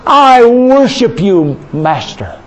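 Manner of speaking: slow, lifted praise; worship prayer. Real, not acted. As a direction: pour out praise. Praising God aloud.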